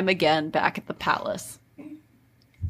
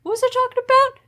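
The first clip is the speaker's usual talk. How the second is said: dazed surprise; 11 semitones higher than usual. Retold or imitated. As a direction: lose the thread then stretch it out. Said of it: "he's like".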